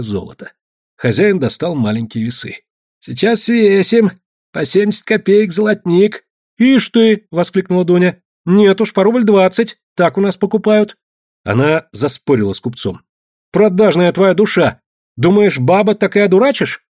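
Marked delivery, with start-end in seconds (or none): 3.0-6.2 higher, slow trader's pitch; a lightly voiced greedy merchant; eager merchant. Merchant weighing gold eagerly. 6.6-16.8 higher, louder bargaining scold; mock-indignant peasant woman; haggling. Dunya haggling with merchant.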